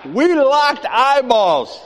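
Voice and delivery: very drawn-out, high, loud movie moment; booming slowed-film drama; slow motion. Acted. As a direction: drag each word out in slow motion. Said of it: "all of a sudden it slows down".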